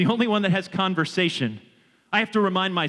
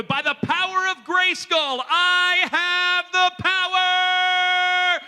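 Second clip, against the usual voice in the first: much higher, slow heroic battle cry; He-Man cry; 12 semitones higher, much slower than usual. Retold or imitated. Speaker imitating He-Man's heroic cry for the audience. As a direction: hold the last word like raising a sword. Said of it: "and he'd go".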